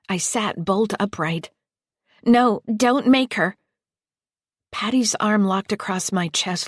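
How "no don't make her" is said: louder, higher, slow pleading cry; desperate plea. Acted. Scared child begging Lester not to force her, desperate. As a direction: beg them to stop.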